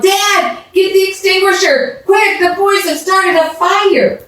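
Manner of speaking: high, urgent yell for help; mother yelling for the extinguisher. A narrator's reading. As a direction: shout across the yard for help. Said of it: "she yelled".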